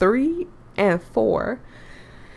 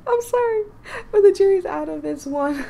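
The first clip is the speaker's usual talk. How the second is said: teasing Kat; 11 semitones higher, 4 dB louder than usual. Acted. Voicing Kat teasing verdict.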